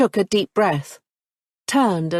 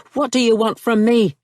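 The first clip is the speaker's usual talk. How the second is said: louder, higher, stress on what; pointed echo; 5 semitones higher, 4 dB louder than usual. A narrator's reading. Nicholas turns her question back on her, sharp and pointed.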